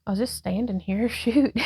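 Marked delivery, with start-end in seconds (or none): none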